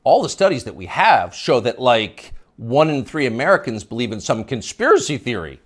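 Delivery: sing-song rising mock imitation; mocking upspeak. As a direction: mimic her upspeak, every phrase rising. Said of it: "You'll notice the upspeak, the rising inflection".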